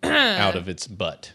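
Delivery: slow, low, dry report; deadpan. Shown as a demonstration. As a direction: state it slowly and bluntly. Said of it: "That's how you say it".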